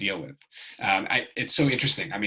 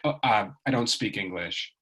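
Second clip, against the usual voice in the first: put-on perfect American accent. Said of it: "in, like, a perfect American accent".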